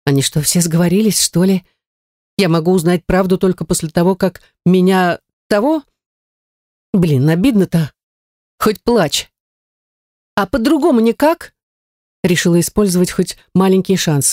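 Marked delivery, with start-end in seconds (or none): 0.0-11.5 complain, then plead for another way; lightly voiced upset witch. A narrator's reading. Heroine dismayed.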